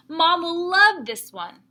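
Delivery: bubbling over with excitement; excited and happy. Acted. Splat telling Seymour about Mom, excited.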